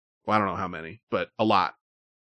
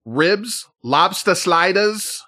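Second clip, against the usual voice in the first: a put-on Boston accent, higher and slow; terrible Boston accent; 7 semitones higher, much slower than usual. Host reading menu items in a bad Boston accent. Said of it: "Hey, that was a terrible accent".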